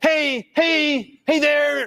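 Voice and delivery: play-acted, effortful, loud, very high and slow. Describing awkward people, speaker imitates them: mock forced loud greeting. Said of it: "they might try to be loud".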